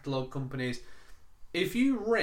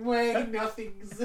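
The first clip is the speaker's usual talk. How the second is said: imitated Indian accent; 8 semitones higher, slower than usual. Joke agent voice.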